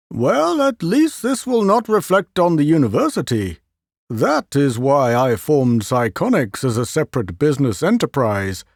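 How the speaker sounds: a hint of a pleased inventor; Leo voiced. Leo to the president, lightly wry.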